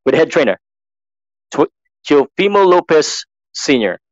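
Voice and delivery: lightly voiced ring announcer; measured boxing introduction with pauses between facts; Mark Chinook. Practicing announcer lists a boxer's trainer and record, measured announcing. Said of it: "I'm just copying Mark Chinook".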